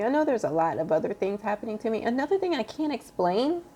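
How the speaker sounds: words squeezed out through crying; emotional, on the verge of sobbing. Real, not acted. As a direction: voice breaking high with tears. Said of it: "Let me take a moment".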